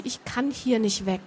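soft near-whisper. A narrator's reading. Grona admitting she cannot leave, in a soft near-whisper. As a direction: keep it hushed and small. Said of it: "flüsterte sie".

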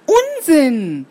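annoyed mama. Acted. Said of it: "rief die Mama ärgerlich".

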